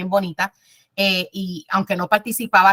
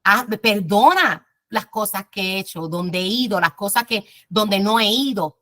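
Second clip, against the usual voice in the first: prayerful plea. Shown as a demonstration. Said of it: "tienes que decir en tus oraciones".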